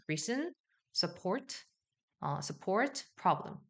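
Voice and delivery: 약모음을 흘려 가볍게; 어와 으 중간으로 연달아; schwa review. Shown as a demonstration. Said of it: "의와 어의 중간처럼 들린다". (약모음 복습 시범)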